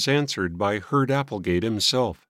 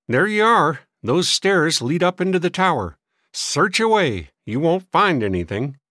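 put-on higher, louder dismissive old man; testy old man; 7 semitones higher, 4 dB louder than usual. A narrator's reading. Old man showing boys the tower stairs, dismissive. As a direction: wave them off crossly.

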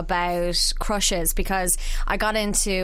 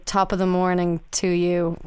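Irish accent; 3 semitones lower than usual. Shown as a demonstration. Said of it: "if I had to say it, I would say".

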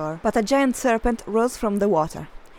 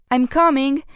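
raised, higher call back; yelled; 4 semitones higher, 5 dB louder than usual. Acted. Hilary answering her mom, a raised yell. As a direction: shout back on the way to help. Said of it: "yelled Hilary".

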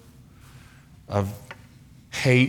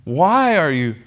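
voice of Jesus. Acted. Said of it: "Jesus calls him out".

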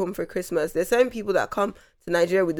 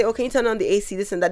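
put-on light British accent. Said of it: "If you go to them and say".

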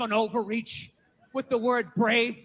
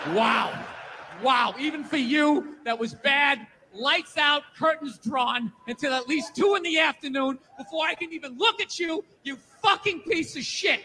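disgusted self-scolding. Retold or imitated. Scolding himself in the mirror, mock disgust. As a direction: berate your reflection with mock horror. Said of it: "you're like".

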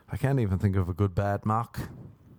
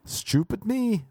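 high, slow cartoon voice; mock self-scolding; 10 semitones higher, slower than usual. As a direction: drag it out in a silly put-on voice. Repeated self-mock, first take high.

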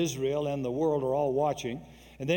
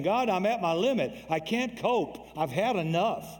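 despairing cry; 5 semitones higher than usual. Retold or imitated. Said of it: "that's what Elijah is saying".

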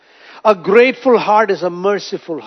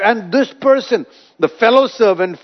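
ordinary delivery

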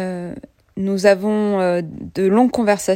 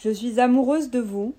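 stiff, bad robot voice; 3 semitones higher than usual. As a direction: talk like a clunky android. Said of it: "avec des voix de robots nuls".

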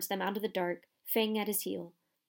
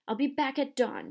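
nasty; 5 semitones higher, 3 dB louder than usual. Acted. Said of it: "he added nastily".

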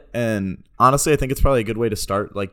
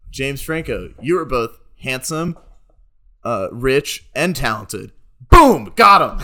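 deadpan fake compliments, then a loud triumphant "Boom!"; mock roast with a big punchline shout; bad roast comic; 3 semitones higher, 7 dB louder, slower than usual. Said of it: "he did really bad roasts on purpose".

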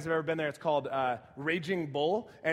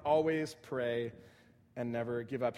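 always pray said slowly, dropping lower at the end; slow, deliberate repeat; 5 semitones lower than usual. Shown as a demonstration. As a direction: spell it out word by word, then let never give up fall lower.

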